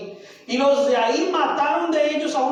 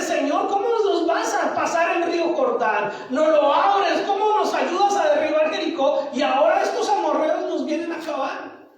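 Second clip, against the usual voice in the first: acted protest to God, slightly raised; frustrated complaint; 3 semitones higher than usual. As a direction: imitate Josué questioning God in frustration. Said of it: "porque se sentía frustrado". (queja frustrada, imitada)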